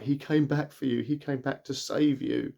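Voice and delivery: a touch of mock tearfulness; retold crying. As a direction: imitate a tearful mum, lightly. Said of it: "starts breaking and crying".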